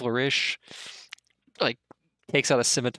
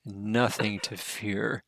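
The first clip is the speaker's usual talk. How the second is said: smug king; 2 semitones lower than usual. Acted. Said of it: "it's like".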